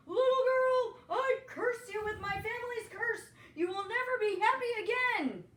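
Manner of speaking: high, very loud raging curse; furious curse. A narrator's reading. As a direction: hurl the curse with fury.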